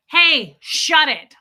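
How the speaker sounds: high, loud telling-off; mock confrontational yell. Client turning round on loud phone talker, pretend angry yell. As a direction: yell it at them, play-acting. Acted confrontation she would never make.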